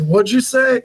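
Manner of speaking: high-pitched puzzled question; baffled mom. Retold or imitated. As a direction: imitate a mother who caught none of it. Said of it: "my mom starts looking at me like".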